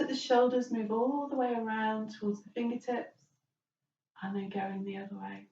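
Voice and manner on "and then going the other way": breathy whispered cue; soft yoga whisper. Real, not acted. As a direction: let the words fall to a whisper.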